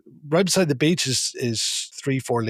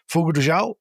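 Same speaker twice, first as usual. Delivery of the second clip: put-on higher-pitched go at a Brazilian Portuguese accent; 3 semitones higher, faster than usual. Hungover tourist naming a steakhouse to a cabbie, Brazilian Portuguese accent. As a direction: try your best Brazilian Portuguese accent. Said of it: "my best Brazilian slash Portuguese accent".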